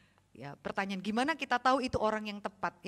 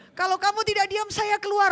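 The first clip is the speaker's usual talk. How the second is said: mock stern threat; 10 semitones higher, 8 dB louder than usual. Preacher threatening noisy kids.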